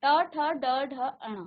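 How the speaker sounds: ट, ठ, ड, ढ, अण said clearly with tongue curled back; teacher modelling the retroflex row; retroflex series demo. Shown as a demonstration. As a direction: sound out ट ठ ड ढ अण slowly for students. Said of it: "मुख का मूर्धा स्थान".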